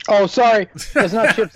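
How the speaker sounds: apologizing with a mouthful; talking while chewing donuts; mouth full. Real, not acted. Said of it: "I'm eating donuts from the shop".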